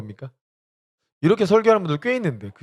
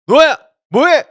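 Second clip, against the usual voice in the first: put-on high, loud call to the child; 11 semitones higher, 11 dB louder than usual. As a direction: catch the kid in the act. Parent calling child in story.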